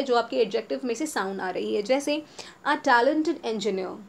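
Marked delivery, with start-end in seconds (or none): 2.7-4.0 a talented engineer drawn out; very slow model. Shown as a demonstration. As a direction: read a talented engineer slowly. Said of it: "teacher modelling example".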